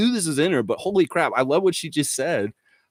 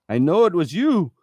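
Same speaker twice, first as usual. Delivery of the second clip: mock accusation; 2 semitones higher, 3 dB louder than usual. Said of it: "reenact the phone call".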